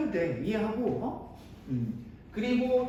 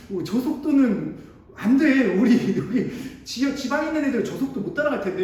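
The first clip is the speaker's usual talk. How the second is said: laughing disbelief; 4 semitones higher, 7 dB louder than usual. Real, not acted. Laughing at the fast lecture.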